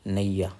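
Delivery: नैया sounded naiya, the short form of आग्नेया. Shown as a demonstration. Teacher shows students the short नैया, said gently. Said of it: "इसको नैया बोल देते हैं ना".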